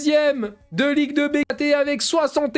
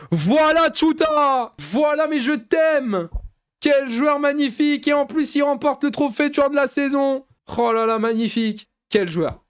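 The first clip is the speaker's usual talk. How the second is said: play-by-play. Acted. Gamer announcing the cup final, commentator style. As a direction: announce the final like a stadium caller.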